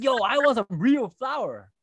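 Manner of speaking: high, whiny demanding voice; whiny ex impression. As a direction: whine it like a disappointed ex. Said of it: "He's like".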